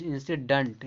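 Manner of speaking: "इंसिडेंट" as insi-dunt; "इंसिडेंट" ending in uh-nt; correct pronunciation. Shown as a demonstration. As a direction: say "इंसिडेंट" with a weak last vowel. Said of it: "पढ़ा जाए".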